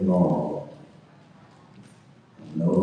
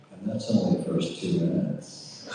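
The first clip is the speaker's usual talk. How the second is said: amused laughing. Real, not acted. Jokes about his wild story.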